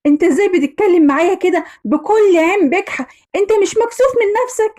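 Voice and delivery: rising, fast outraged accusations; angry wife. Acted. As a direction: tear into him for cheating. Wife confronts cheating husband.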